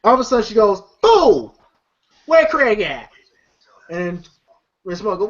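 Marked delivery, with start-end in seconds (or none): 1.0-3.1 high sharp retold yell; mock yell. Mom yelling for Craig, mock yell. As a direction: bark it like an angry mom.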